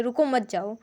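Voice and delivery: रुको मत जाओ run together in one go; all three words in one breath; no pause. Shown as a demonstration. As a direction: say रुको मत जाओ without any comma break. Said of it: "एक ही बार में बोल देते हैं".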